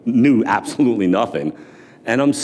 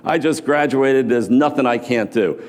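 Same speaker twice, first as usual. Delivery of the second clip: put-on cocky young graduate; 5 semitones higher, slower than usual. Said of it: "I was one of those kids like".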